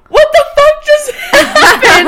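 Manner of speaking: high, breaking into laughs of disbelief; stunned and laughing at once; shocked laughter. Retold or imitated. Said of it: "And I was like".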